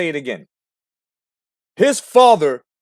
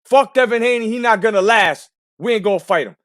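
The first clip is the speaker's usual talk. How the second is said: higher, scornful imitation; mock father's trash talk; 5 semitones higher than usual. Host imitating the father telling his son off. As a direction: sneer it like the dad. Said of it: "telling him".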